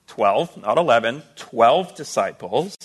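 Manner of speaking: "twelve" set apart, then repeated slowly; deliberate, slowed emphasis on "twelve"; stress on twelve. Real, not acted. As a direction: lean on "twelve" both times, drawing out "twelve disciples". Preacher stresses the count of disciples.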